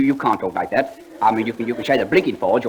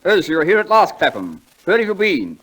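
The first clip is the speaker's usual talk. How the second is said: pompous host; 5 semitones higher than usual. Acted. Comic duo sketch, the speaker's pompous voice.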